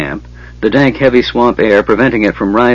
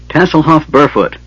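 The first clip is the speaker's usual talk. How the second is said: calling out; 6 semitones higher than usual. A narrator's reading. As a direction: shout the name into the smoke. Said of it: "Flint called".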